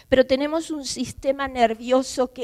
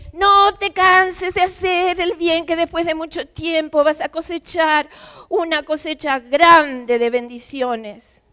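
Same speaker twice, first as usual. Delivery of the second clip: emphatic divine encouragement; 3 semitones higher, 5 dB louder than usual. Acted. Quoting God's encouragement, preaching.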